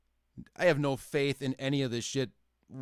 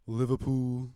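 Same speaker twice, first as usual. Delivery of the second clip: put-on Liverpool English accent. Shown as a demonstration. Mocking British accents by picking examples, mock Liverpool accent. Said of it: "Any British accent. Any of 'em. Pick 'em".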